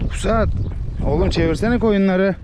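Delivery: high call to the dog to turn the sheep. Real, not acted. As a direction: shout the dog into herding the sheep. Calling the dog to herd.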